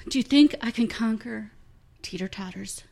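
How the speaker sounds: put-on eager little kid. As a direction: play a thrilled six-year-old. Kid character.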